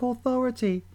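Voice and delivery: irritating shrill voice. Shown as a demonstration. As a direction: screech it, high and grating. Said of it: "the shrill voice".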